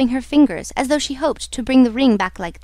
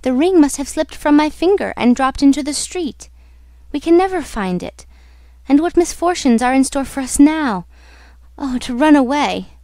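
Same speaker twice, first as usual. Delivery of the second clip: distressed, higher-pitched heroine; unpacified; 4 semitones higher, 3 dB louder than usual. Acted. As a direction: fret aloud, refusing to be calmed. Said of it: "Christine refused to be pacified".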